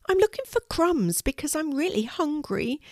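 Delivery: high, squeaky little mouse voice; small mouse squeaking softly to the dog. Acted. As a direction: squeak it out like a tiny hungry mouse. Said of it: "in her soft, squeaky voice".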